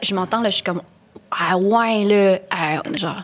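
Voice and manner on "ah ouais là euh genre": lightly exaggerated Québécois "Ah ouais, là"; a hint of caricatured Québécois accent; more Québécois. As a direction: put on a bit of Quebec drawl. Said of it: "je parle beaucoup plus québécois".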